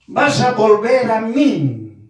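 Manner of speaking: slow, stretched taunting question; slow mocking repeat; drawn-out mock challenge. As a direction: repeat the challenge slowly, dragging it out.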